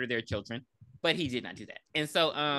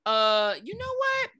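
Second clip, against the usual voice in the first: bold sass; 7 semitones higher, 3 dB louder, slower than usual. Retold or imitated. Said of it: "acting like a strong black woman".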